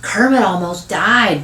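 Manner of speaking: put-on slow, emphatic little-boy announcement; exclaiming. Little boy telling cousin of brother's illness, exclaiming. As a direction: blurt the big news, stretching it out. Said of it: "Buddy exclaims".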